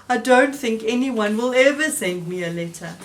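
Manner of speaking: glum Toad voice. Acted. Toad gloomy, voiced apart.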